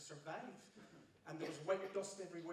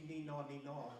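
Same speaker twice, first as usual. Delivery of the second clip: two-note siren. Retold or imitated. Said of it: "ambulances used to just have two notes".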